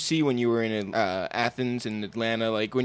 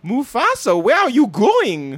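high, slow yell calling after a cat; 11 semitones higher, 8 dB louder, slower than usual. Retold or imitated. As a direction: call out loud and stretched, like hunting for a runaway cat. Roommate calling her cat again.

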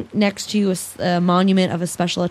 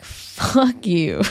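laughing mock curse; 3 dB quieter than usual.

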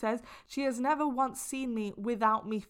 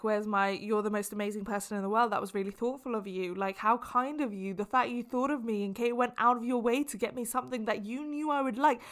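exaggerated gushing thanks. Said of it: "I'm exaggerating it a little bit".

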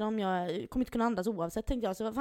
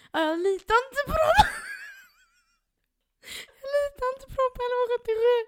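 laughing; 7 dB louder than usual. Retold or imitated. Own quote, laughing high.

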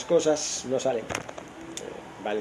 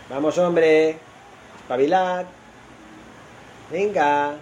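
urging shout; 4 semitones higher, slower than usual. Real, not acted. Urging Barça players on.

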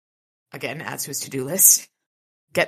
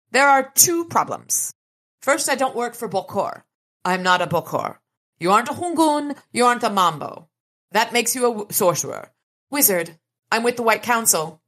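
high, tiny oracle sprite; 6 semitones higher than usual. Acted. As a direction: speak as a small stern spirit.

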